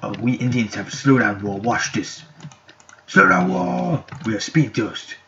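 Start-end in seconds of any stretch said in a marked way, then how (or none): 3.1-4.0 high, loud, held-out cry; power-move call. Pretend. Player showing off the wall power, high battle call. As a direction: call out the power on one high sustained pitch. Shouts the power after "Watch this.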